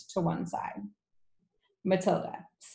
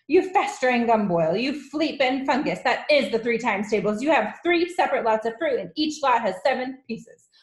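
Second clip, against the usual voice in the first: loud, high, exasperated tirade; bullying headmistress shout; Trunchbull; 6 semitones higher, 5 dB louder than usual. A narrator's reading. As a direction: berate a pupil with relish for each insult. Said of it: "shouted the Trunchbull".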